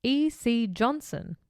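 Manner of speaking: measured reading of a case file; true-crime narration. A narrator's reading. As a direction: read the account out formally, in phrases. Reads the case script.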